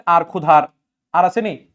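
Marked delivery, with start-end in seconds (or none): 0.1-0.6 আর, then ক্ষুধার, louder on the r syllable; isolating the sound. Shown as a demonstration. Teacher answers which sound is heard, ক্ষুধার sounded out. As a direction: show the "ar" ending in ক্ষুধার, loudly. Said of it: "কি উচ্চারণ হচ্ছে".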